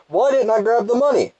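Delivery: high, loud wail of frustration; exasperated outburst. Real, not acted. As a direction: cry out high and loud at your own blunder. Exasperated at missing the money.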